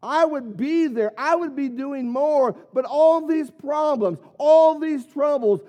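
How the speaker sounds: a hint of a complaining churchgoer; mock excuse. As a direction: play the excuse-maker. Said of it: "an escape or an excuse".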